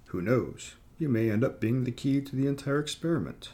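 lightly voiced gloating villain; sneering gloating dark voice. A narrator's reading. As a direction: gloat over your prize. Necromancer gloats about experiment.

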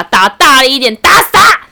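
ramp up to yelling kill him; mock order to beat. Classmate shouting at the scam caller, mock yell. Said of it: "他就说".

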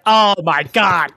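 slow, exasperated mock groan of disbelief; so over it. Imitating the detective hearing "Chucky bit me", slow and fed up. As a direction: drag it out, totally fed up. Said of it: "he's so over it".

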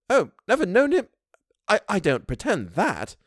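a servant stumbling to admit; Missus Gross voice. A narrator's reading. Housekeeper answers the governess, faltering.

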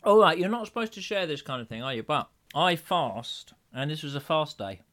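talking through a mouthful; chewing a sandwich while speaking; mouth full of fish. Real, not acted. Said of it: "I can't believe you're scoffing".

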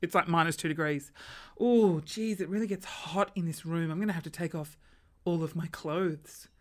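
soft, breathy-free low seductive put-on; a hint of a sultry homeowner; mock alluring. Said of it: "being, like, alluring".

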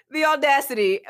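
high, laughing disbelief; amused outrage. Real, not acted. Repeating her shock at Lysa, high and scoffing. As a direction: scoff at it again.

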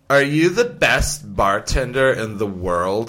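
put-on slow, sloppy drunk girl. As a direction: slur it like a tipsy girl at a bar. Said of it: "And she goes".

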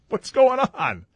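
high-pitched mock dismay; hammed-up baffled cry; utter bewilderment. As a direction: exclaim it in comic confusion. Retold bafflement at both speakers.

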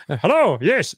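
hammed-up chirpy hello; mock interviewee. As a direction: imitate an eager guest answering. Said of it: "I'll do it in my own accent".

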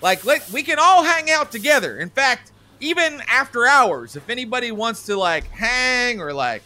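needy manager voice; eager needy boss. Acted. Manager pleading to be liked.

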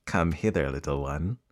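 low, soft coaxing creature; luring crocodile. Acted. Crocodile lures the elephant's child.

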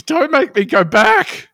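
high, loud, drawn-out wail; melodramatic plea. Acted. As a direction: beg desperately, slow and hammed-up. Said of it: "he's just like".

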